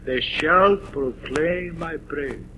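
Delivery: slow, soft, with "shall" leaned on; "They shall proclaim my praise" with weight on "shall"; stress on shall. Shown as a demonstration. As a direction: draw out "shall". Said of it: "the emphasis falls on a different word".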